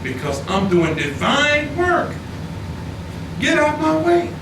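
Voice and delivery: low, calm quoted warning to his wife; not hollering. Retold or imitated. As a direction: tell her firmly without raising your voice. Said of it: "and I don't holler".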